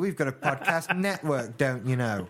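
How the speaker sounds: put-on old prospector. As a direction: grumble like a pompous old codger. Pompous old-timer rant.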